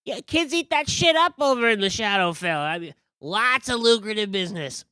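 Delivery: high, loud conspiratorial explaining; high scheming merchant voice; gossipy carnival figure. Acted. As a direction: let them in on a shady deal.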